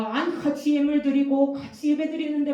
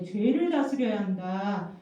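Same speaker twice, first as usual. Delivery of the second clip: God's warning; 3 semitones lower, 3 dB louder than usual. Acted. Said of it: "이렇게 경고하셨어요".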